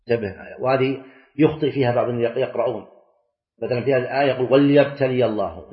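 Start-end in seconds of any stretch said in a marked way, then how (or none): 4.5-5.7 وليبتلي with the lam read silent, wal-yabtali; the mistaken reading with a silenced lam in وليبتلي; wrong reading. Shown as a demonstration. Teacher imitating a reader who silences the lam in وليبتلي. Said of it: "لا، هي".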